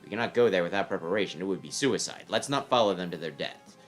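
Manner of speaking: cool voice of an enemy commander; stern commander voice. Acted. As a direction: question the report coldly. Commander calls off pursuit.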